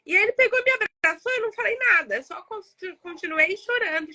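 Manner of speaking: telling it as the feeling comes back; moved while telling. Real, not acted. Recalling being hugged by the driver, moved. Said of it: "até dá emoção de contar".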